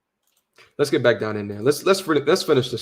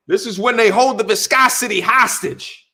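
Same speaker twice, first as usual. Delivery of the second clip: quoting Patrice O'Neal; 4 semitones higher than usual. Retold or imitated. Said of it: "What does he say?".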